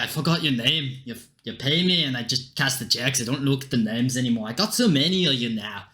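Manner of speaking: offhand Scottish brogue; Scottish accent. Acted. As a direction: brush them off in a Scottish accent. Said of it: "Don't know why he's Scottish".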